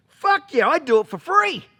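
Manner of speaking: high, loud, overjoyed yelp; eager little brother. Retold or imitated. Little brother jumps at the offer, high loud yell. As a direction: blurt it out with high excitement.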